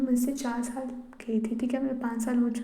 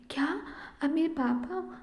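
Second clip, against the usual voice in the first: put-on surprised child; 4 semitones higher, 4 dB quieter than usual. Child surprised to learn father.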